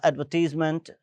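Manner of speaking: एडवर्टाइजमेंट pronounced ad-ver-teez-ment; "-tise" said as "-teez". Shown as a demonstration. Teacher showing the word is not read "tize": एडवर्टाइजमेंट said ad-ver-teez-ment. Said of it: "एडवर्टीज कह रहे हैं".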